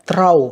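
"throw" ending in an OH sound; long O. Shown as a demonstration. Teacher comparing OW spellings for pupils, long O in "throw". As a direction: say "throw" to rhyme with "go". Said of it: "âm O".

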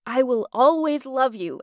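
lightly acted drunk declaration; drunken slur. A narrator's reading. Drunk ex declares love at the porch, slurring. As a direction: slur it a little, as if tipsy. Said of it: "begin to drunkenly slur".

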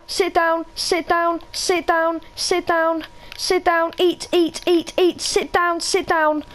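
high, firm commands to a dog; pet commands. Real, not acted. Commanding the dogs in-game.

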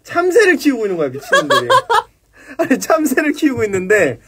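high, laughing through the words; can barely get it out for laughing. Real, not acted. Telling a friend about the barracks sparrow, laughing.

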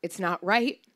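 grandma calmly stating it's not right; matter-of-fact. Retold or imitated. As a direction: state it's not right plainly, no drama. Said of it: "she said matter-of-factly".

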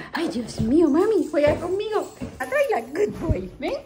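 talking to a dog. Real, not acted. Playing with the dog.

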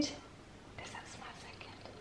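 hushed, slow whisper to a pet; whispered pet talk. Real, not acted. Owner teasing the dog with food, slow whisper. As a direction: whisper it slowly, coaxing the dog.

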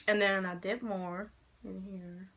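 hoarse from being sick; croaky sick voice. Real, not acted. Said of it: "Sorry, I'm sick".

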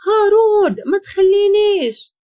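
high, loud panicked scream; waking up screaming. A narrator's reading. Wife wakes from a nightmare, screaming for her husband. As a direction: cry out his name from a nightmare. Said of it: "ناضت روان كتغوت".

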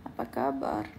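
a playful deep-voiced Apa kabar; mock deep voice. Shown as a demonstration. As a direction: drop way down low and soft for Apa kabar. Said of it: "second take of greeting".

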